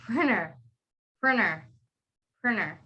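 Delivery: "printer" said as "prinner"; silent T. Shown as a demonstration. Teacher repeats printer for students, silent T. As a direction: drop the T after N in "printer". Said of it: "the real rule is printer".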